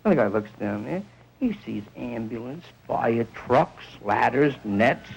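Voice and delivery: ordinary delivery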